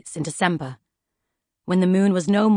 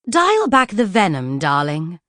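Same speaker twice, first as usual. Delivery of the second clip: placid; slower than usual. Acted. Lady Feroza calming Poisons, placid and sweet. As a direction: calmly soothe the angry book. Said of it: "Lady Feroza replied placidly".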